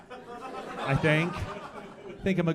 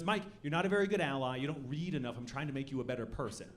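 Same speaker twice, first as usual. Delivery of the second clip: soft, quick, preachy lecture; lightly voiced smug friend, hushed and fast; friend's lecturing quote; 4 semitones lower, 7 dB quieter, faster than usual. Friend scolds Mike for being a bad ally, soft and smug. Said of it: "And he goes".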